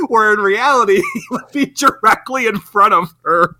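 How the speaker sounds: incredulous, giggly delivery; amused disbelief. Real, not acted. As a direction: laugh while pointing out the absurdity. Laughs at absurd hiding scene.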